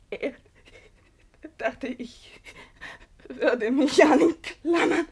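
crying. Acted. Pauline weeping.

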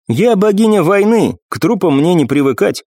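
a proud war goddess speaking; commanding warrior goddess. Acted. Nephrite voiced, higher.

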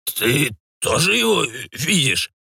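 put-on slow, scared old man; a touch of fear, slow; frightened stammer. A narrator's reading. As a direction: ask it in fright. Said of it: "заикаясь".

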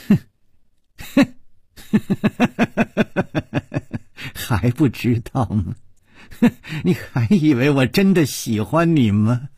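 scornful chuckles breaking through the words; mock her between laughs; cruel laughter. A narrator's reading. Gong Nanyan mocking her victim, cruel laughter. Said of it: "她不停地笑".

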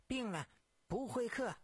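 put-on a touch of cross old-servant refusal; dismissive old woman. A narrator's reading. Old servant turns caller away.

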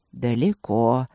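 low, melodious, lilting word; singsong agreement. A narrator's reading. Old tiger agreeing with the puzzled princess, singsong. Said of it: "певуче согласился собеседник".

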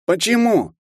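high, crying plea; tearful why. A narrator's reading. Sobbing half-elf begging the professor for an answer. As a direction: sob out the single word. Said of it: "всхлипывая".

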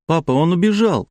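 a little son telling his father, upset; small boy voice. Acted. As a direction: play a tearful small child. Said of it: "сказал Стасик и заплакал".

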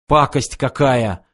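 slow, mildly snorted disgust; a touch of contempt, words drawn out. A narrator's reading. Фыф shooting the dead monster's head, mildly snorting in disgust. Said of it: "фыркнул Фыф".

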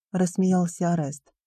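usual speaking voice

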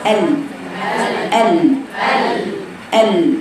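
ال held on a clear L; ال as an articulation drill; isolated lam sound. Shown as a demonstration. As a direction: say ال alone, tongue at the place of lam. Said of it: "وشاور على مكان اللام".

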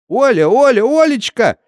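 high loud calling out; shouting on the run. A narrator's reading. Neighbour woman running in, shouting high to Olya. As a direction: call her name while running. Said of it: "кричала женщина на бегу".

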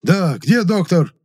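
high, slow, loud wail; slow loud panicked yell. A narrator's reading. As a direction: cry out in a panic. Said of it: "завопил дознаватель".

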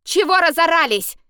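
high, loud barked shout; loud angry yell. A narrator's reading. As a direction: bark out the window at them. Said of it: "рявкнула".

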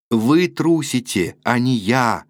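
mild slow mock shout; shouted after her. Rudin calling after Natalya as she leaves, slow mild shout. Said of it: "крикнул Рудин вслед Наталье".

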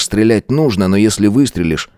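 ordinary delivery, nothing marked

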